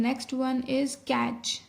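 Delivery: very slow, every word drawn out; slow dictation. Shown as a demonstration. Teacher dictating a word to shorthand students, very slowly. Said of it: "teacher dictating next word".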